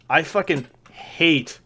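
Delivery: slow down and lean on "hate"; stress on hate. Real, not acted. Player on boring RuneScape tasks, stress on "hate". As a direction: draw out "hate" with emphatic weight. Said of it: "I emphasize this word".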